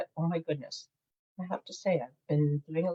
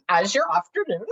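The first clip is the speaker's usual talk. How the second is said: higher, louder mock-British lilt, breaking into giggles; terrible British accent; 8 semitones higher, 6 dB louder than usual. Shown as a demonstration. Crafter playing with the colour's name, hammed-up British accent. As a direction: overdo a bad British accent. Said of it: "probably a terrible British".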